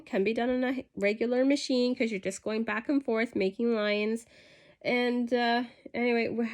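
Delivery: stuffy nose from a cold; blocked nose, nasal voice. Real, not acted. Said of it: "sorry for my nasally voice, I do have a cold".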